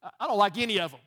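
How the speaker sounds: complaining through a laugh; laughing mock complaint. A preacher joking how he would have reacted, laughing. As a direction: laugh while griping about everyone. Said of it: "This would have been my version".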